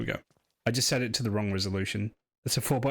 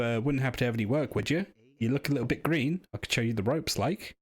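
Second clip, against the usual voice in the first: a hint of chummy Scouse chancer; lightly voiced Scouse scavenger; 2 semitones higher than usual. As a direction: lightly play a local scrounger angling for work.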